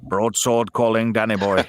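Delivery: Richard Burton impression. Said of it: "that's a great impression".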